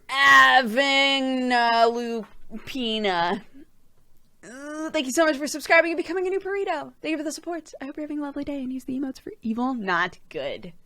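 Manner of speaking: words pushed out on a burp. Real, not acted. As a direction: talk through a burp. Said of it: "Excuse me. Sorry for the burp".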